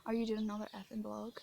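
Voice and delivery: the same jeer retold with "effing" for the curse; quoting the heckler's sneer again, cleaned up; retold taunt, censored. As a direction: tone his taunt down politely. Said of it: "Sorry for cursing".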